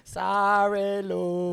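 loud, high, dismissive "sorry"; offhand apology. Retold or imitated. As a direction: toss off an apology without looking. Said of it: "He doesn't even look at you".

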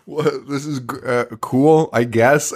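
halting, unimpressed mock reaction; indifferent mope. Friend shrugs off praise from fans, indifferent. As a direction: imitate a friend who is neither mad nor happy. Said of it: "He's not even, like, mad about it or happy".

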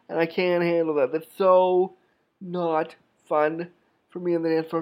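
incredulous, fed-up complaining; indignant rant. Retold or imitated. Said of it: "And you're going".

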